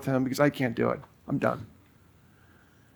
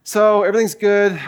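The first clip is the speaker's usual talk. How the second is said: forced casual; 2 semitones higher, faster than usual. Retold or imitated. Preacher retelling greeting his nervous friend, playing it overly cool. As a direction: pretend nothing is odd. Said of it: "I'm trying to play it cool".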